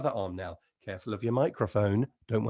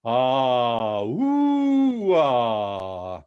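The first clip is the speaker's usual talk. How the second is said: head voice slide; 8 dB louder, much slower than usual. Shown as a demonstration. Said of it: "with me".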